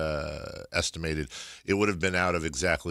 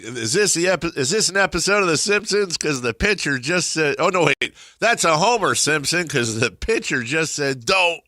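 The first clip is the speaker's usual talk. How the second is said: excited announcer; 8 semitones higher, 4 dB louder than usual. Retold or imitated. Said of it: "he was like".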